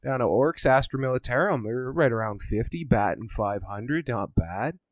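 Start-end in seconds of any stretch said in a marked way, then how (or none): 0.0-1.6 light Canadian hoser twang, louder; Canadian hoser accent. Retold or imitated. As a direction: carry on the chummy Canadian bit. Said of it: "My amazing impersonation".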